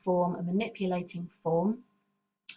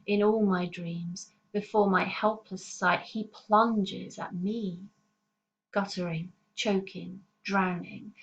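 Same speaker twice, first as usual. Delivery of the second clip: poem reading. Acted. Reads lines of the poem aloud.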